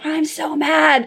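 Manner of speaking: put-on high, slow, whiny little-girl voice with no real scream; imitating angry toddler. Mom voicing her toddler shouting outside the bedroom door, high and slow. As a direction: mimic a cross small child dragging the words. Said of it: "I hear her screaming outside".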